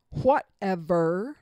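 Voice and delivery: slow, drawn-out sarcastic whatever. Shown as a demonstration. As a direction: drag out whatever with contempt. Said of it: "in a sarcastic tone".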